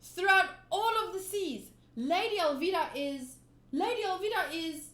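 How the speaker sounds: loud, high frantic plea; terrified boy yelling at his friend; panicked Koby. Acted. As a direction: beg him urgently at full voice. Koby forced to praise Alvida.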